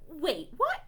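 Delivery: ordinary delivery, nothing marked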